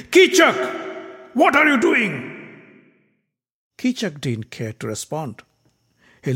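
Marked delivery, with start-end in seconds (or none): 0.1-2.6 much higher, sharp shocked outburst; shocked king. Acted. King rising from his throne to stop Kichak, shocked outcry. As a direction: call him out in disbelief. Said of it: "He stood up from his throne and said".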